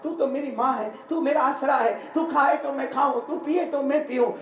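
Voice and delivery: imitated tearful plea, pitched high; retold sobbing. Son imploring his mother to eat, mildly tearful imitation. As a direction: plead with mother, only a touch of weeping. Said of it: "फूट फूट के माँ के सामने रोने लगा".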